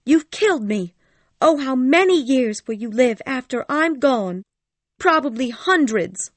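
high, loud reproach; dying woman accusing her lover at full pitch; crying out accusingly. Acted.

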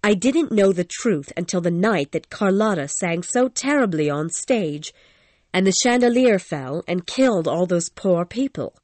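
a lightly voiced young woman, troubled; lightly voiced Christine, remembering; Christine the singer. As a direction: tell it like a frightened young singer. Christine's voice, held.

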